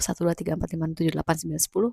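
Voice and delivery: soft, steady count to ten; calm counting. Shown as a demonstration. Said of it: "kalian hitung sampai sepuluh". (berhitung pelan dan tenang)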